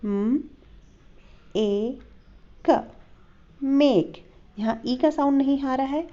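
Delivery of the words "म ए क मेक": म ए क split then मेक blended; sounding out make. Shown as a demonstration. Teacher sounding out make for students. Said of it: "मेक का correct pronunciation है".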